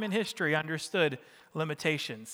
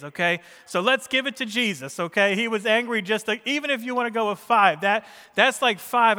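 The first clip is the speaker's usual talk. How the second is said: higher, louder emphatic preaching; raised preaching voice; 4 semitones higher, 7 dB louder than usual. Real, not acted. Preacher arguing five times or three to congregation, emphatic preaching. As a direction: press the point with raised voice. Preacher drives his point home.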